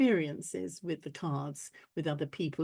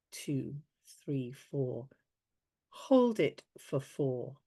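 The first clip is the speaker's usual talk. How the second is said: guided breathing. Acted. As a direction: lead the breath gently. Leads breathing exercise.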